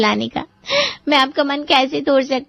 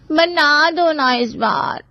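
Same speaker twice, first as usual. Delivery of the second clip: pleading; much slower than usual. Acted. Daughter pleading with mother.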